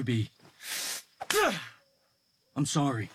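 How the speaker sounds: soft, halting father reaching out; hesitant apology. Acted. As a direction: tentatively apologize to the hurt son. Father approaching son hesitantly.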